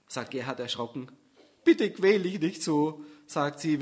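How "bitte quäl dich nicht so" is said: slow, tender pleading; teary plea. Acted. Susanne begging Gerhard not to suffer, slow and teary. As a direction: plead slowly on the edge of tears. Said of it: "während sich ihre Augen mit Tränen füllen".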